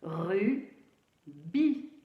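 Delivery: "Rubis" split in two, pause after "Ru"; syllable by syllable. Shown as a demonstration. Teacher re-reading the written word, syllable by syllable.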